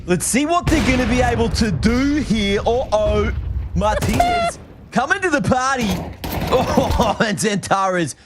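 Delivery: hammed-up Aussie caster accent. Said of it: "It might actually be your real accent".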